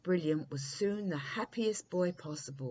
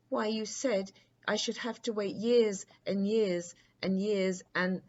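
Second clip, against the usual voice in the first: put-on higher, louder boy prince objecting; a young prince cut off mid-protest; 5 semitones higher, 5 dB louder than usual.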